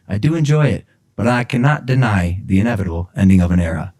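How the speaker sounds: measured recital of self-penned prose; earnest written-piece read-aloud; formal literary reading. Real, not acted. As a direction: read it out like a solemn manifesto. Reads own written manifesto aloud.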